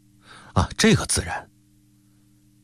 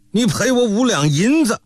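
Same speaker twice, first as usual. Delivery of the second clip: angry demand; 12 semitones higher than usual. A narrator's reading. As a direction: leap up and bark for the money. Uncle leaps up demanding money.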